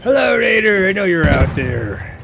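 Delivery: loud, high call out to a raider; excited greeting. Real, not acted. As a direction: streamer welcoming a raider loudly.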